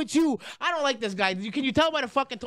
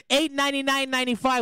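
ad read. Acted. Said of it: "full Twitch mode".

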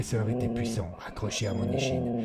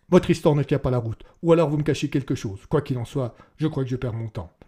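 much louder, higher and exasperated; fed up; 3 semitones higher, 7 dB louder than usual. Acted. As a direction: lay into him, tired of the lies. Policeman loses patience with suspect.

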